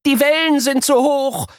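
put-on high strained boy voice; high boy, mildly strained; groaning boy. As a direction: groan under effort. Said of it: "ächzt Luca".

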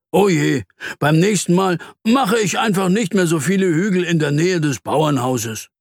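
high, mild lament; dismayed. Acted. Mole hears why his hills were flattened, dismayed. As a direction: exclaim with rueful dismay. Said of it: "ruft der Maulwurf bestürzt".

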